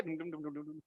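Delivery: soft, low drum syllables; mock musical accompaniment; imitated dance beat. Shown as a demonstration. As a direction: patter out a little dum-dum rhythm. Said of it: "He's crying while dancing".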